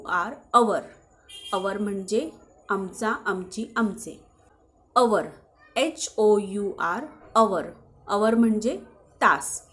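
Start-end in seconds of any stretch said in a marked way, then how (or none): 5.0-5.3 अवर with no "h" at the start; silent H. Shown as a demonstration. Teacher modelling hour for learners, अवर with silent H. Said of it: "ह silent असतो". 7.3-7.7 अवर starting on the vowel, no "h"; silent H. Shown as a demonstration. Teacher repeating hour after spelling it, अवर with silent H. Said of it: "त्याचा उच्चार अवर असा होतो".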